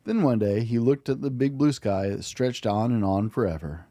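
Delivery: put-on gentle, even storybook narration for a child; bedtime story reading. A narrator's reading. Dad reading a bedtime story to his child, gently. Dad reads picture book aloud.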